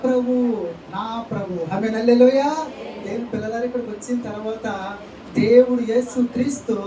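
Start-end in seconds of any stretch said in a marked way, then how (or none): 1.0-1.5 softer and lower, tender longing; softly voiced Mary. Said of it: "ఆవిడ ఏమంటే తెలుసా?". 1.8-2.5 rousing shout of praise; loud hallelujah. Real, not acted. Preacher calls out to congregation.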